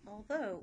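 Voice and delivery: although said slowly, every sound clear; careful although. Shown as a demonstration. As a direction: spell out although by ear. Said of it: "many people spell it with two A's".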